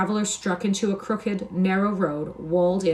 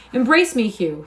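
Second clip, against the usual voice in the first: louder, higher call to his brother; glad cry; 5 semitones higher, 6 dB louder than usual. Acted. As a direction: throw the words out to greet him. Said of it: "he cried".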